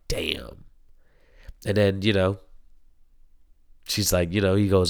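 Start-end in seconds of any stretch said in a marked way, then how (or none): 0.1-0.6 a soft, low, hushed damn; stunned reaction. Retold or imitated. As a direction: let the damn drop out quietly, floored. His own stunned reaction to scene.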